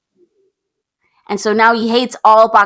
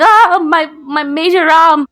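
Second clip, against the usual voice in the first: high, drawn-out melodramatic wail; hammed-up anguished cry, louder and higher; mock hysterics; 7 semitones higher, 4 dB louder, slower than usual. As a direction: act out a film heroine freaking out. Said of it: "Susmita Sen's going nutso in the butso".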